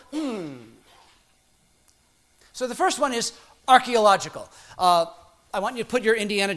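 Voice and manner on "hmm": pondering, drawn-out hmm; thoughtful hmm. Shown as a demonstration. Preacher showing the congregation his reaction, musing hmm. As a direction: let out a musing hum. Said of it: "it made me go".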